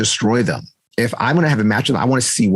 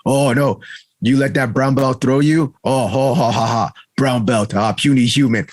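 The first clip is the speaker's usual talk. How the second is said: mocking taunt. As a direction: taunt like a cocky training partner. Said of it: "He'll talk shit to me like".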